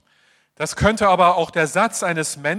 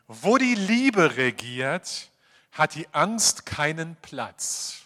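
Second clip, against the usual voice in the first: solemn reading; slower than usual. Shown as a demonstration. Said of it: "Ich lese aus dem ersten Johannesbrief".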